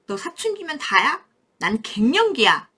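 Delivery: mother's joking put-down; mock retort. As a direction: playfully snap back at the teen. Mother snapping at teen child.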